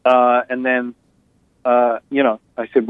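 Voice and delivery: usual speaking voice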